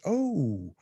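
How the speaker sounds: high, bubbly cashier voice; high chirpy apology from the young cashier; goofy young cashier. Retold or imitated. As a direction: play the silly girl at the window. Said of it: "She was like".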